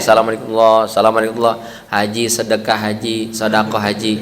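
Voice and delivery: low monotone plea, mimicked; imitated alms seeker. Alms seeker sitting beside a praying pilgrim, low monotone.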